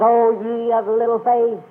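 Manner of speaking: mildly reproving quote, a little drawn out; retold rebuke. Preacher retelling Jesus rebuking the frightened disciples, mild rebuke. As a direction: gently chide them as a preacher quoting. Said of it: "stands up and rebukes them".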